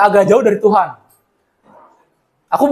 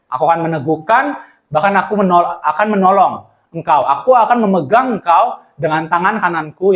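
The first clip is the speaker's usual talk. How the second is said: solemn, slow scripture reading; 3 semitones lower than usual. Acted. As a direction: read it slowly and gently, like a promise. Reads Isaiah verse.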